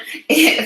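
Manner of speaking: real amused giggle, high-pitched. Real, not acted. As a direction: let a high little laugh escape. Amused about the tall plant.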